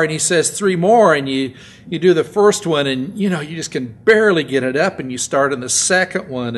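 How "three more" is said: loud barked count from the spotter; spotter yelling. Retold or imitated. Gym spotter yelling at a lifter, loud bark.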